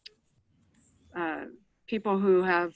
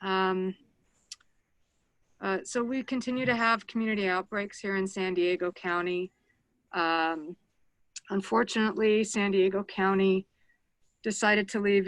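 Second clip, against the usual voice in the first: muffled speech behind a mask; through a face mask. Real, not acted. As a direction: talk through a cloth mask. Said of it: "hopefully you can hear me through my mask".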